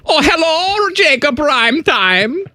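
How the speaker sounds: high, slow, sing-song coo at a grown man; cooing baby talk. Acted. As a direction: talk to him like a toddler, all sugar. Cooing over a coworker.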